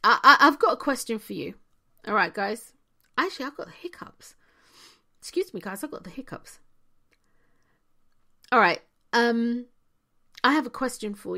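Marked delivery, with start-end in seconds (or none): 3.2-6.6 whispered aside. Real, not acted. Quick aside about hiccups.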